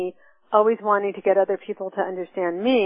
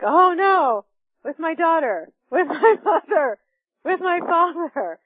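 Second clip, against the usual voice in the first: dismayed realization; 8 semitones higher than usual. Retold or imitated. Sudden dismayed self-realization.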